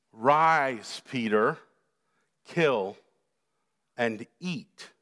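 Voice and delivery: low, spaced-out heavenly command. Acted. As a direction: give each command alone, low and unhurried. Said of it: "The voice speaks".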